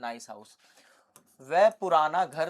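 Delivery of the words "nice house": slow model sentence. Shown as a demonstration. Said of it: "हम बोलते हैं नाइस".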